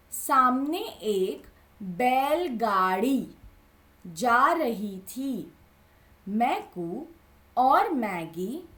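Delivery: put-on lively storybook reading for kids; animated children's story narration. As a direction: read it like a picture book to a class. Teacher reads story to children.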